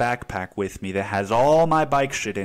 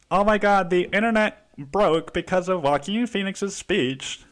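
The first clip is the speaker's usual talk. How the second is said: mock hype; 6 semitones higher than usual. Mocking hyped internet reaction.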